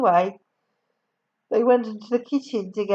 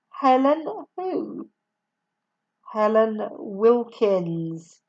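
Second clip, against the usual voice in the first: weary; slower than usual. Acted. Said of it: "the man said wearily".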